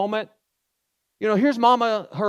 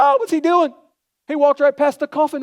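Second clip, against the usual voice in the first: gossiping crowd; 5 semitones higher than usual. Retold or imitated. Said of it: "everybody's like".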